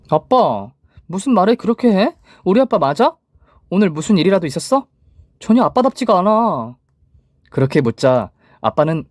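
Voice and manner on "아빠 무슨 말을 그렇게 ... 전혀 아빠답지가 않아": put-on high, hurt girlish pleading; hurt daughter pleading. A narrator's reading. Daughter pleading with her cold father, hurt and high. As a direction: plead with dad in a higher little voice.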